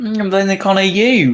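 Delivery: talking through a mouthful of cookie; mouth full. Real, not acted. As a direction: chew while you speak. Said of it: "don't eat when you're on the microphone".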